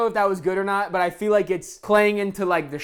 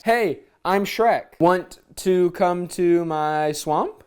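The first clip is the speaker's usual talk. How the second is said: Shrek voice; much slower than usual. Pretend. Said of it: "dating message in Shrek voice".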